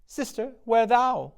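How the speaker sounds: high, strange witch's call. Acted. Witch calls to her sister, high and eerie. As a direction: screech it like a crone.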